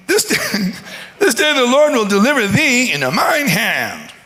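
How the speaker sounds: high, slow, squeaky defiance; squeaky little David. Acted. David tells the giant he'll take his head, squeaky. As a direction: squeak it out bravely, tiny voice. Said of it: "David goes on".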